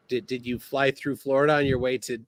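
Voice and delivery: normal talking voice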